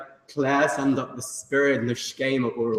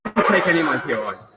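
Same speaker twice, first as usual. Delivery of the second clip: mock outrage; 3 semitones higher, 5 dB louder than usual. Real, not acted. Protesting to opponents.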